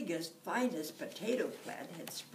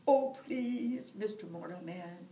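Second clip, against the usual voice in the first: pleading leprechaun; 7 dB louder than usual. Acted. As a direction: wheedle for mercy. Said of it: "he pleaded".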